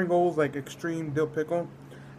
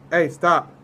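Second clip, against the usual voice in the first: shouting at dog; 10 dB louder than usual. Real, not acted. Yelling at barking dog.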